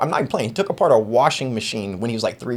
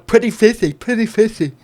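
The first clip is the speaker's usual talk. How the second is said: high sing-song call; imitating the call; 7 semitones higher than usual. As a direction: call the fish up high again. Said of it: "repeating the call".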